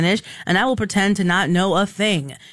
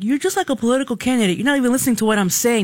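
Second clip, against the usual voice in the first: mock exasperated caller; 4 semitones higher, faster than usual. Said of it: "and the guy's like".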